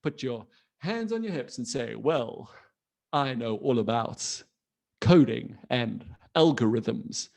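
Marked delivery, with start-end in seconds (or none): 1.9-7.3 mock know-it-all, low and measured; sounding really smart. Kid walks into a room to impress, mock-smart boast. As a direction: show off self-importantly, slowing at the end. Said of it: "you can just sound really, really smart".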